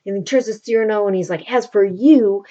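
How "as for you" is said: louder, mildly indignant; mock mad. De Guiche turning on Cyrano, mock mad. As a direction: act out turning on a rival. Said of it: "he's, like, all mad with him".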